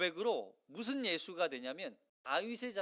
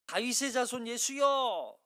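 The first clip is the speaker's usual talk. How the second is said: mock cry out; 4 semitones higher, 5 dB louder than usual. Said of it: "이렇게 외치잖아요".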